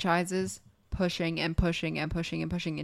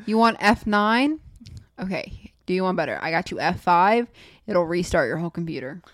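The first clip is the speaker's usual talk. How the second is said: bootlegger voice; 4 dB louder than usual. Retold or imitated. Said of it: "they're gonna say".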